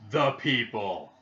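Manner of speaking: loud, drawn-out crowd-style chant; catchphrase shout. Acted. Fan echoing a wrestling catchphrase, loud drawn-out call.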